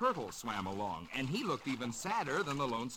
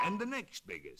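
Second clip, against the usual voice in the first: higher sung-out step; rising note; 9 semitones higher than usual. Acted. Octopus tapping shells, voice climbing the scale.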